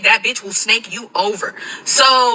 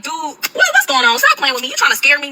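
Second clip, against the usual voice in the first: higher-pitched retold protest; exasperated pleading; 5 semitones higher than usual. Woman tells prankster to stop playing, exasperated. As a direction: plead with him to quit messing around.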